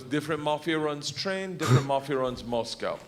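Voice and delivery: put-on clipped-grammar Russian gangster accent. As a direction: explain it as a matter-of-fact Russian gangster. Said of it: "He goes".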